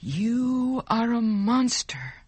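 a restrained, understated shout; mild shout. Acted. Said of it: "Giovanni shouted".

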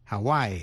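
Hawaii as "ha-WAI-ee"; three syllables. Shown as a demonstration. Teacher repeating a state name, Hawaii in three syllables. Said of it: "phát âm làm ba vần".

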